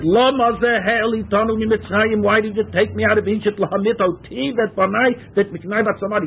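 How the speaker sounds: a hint of a bitter complaint; complaining people. Teacher voices Israelites complaining to Moshe, mild grievance. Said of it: "he said".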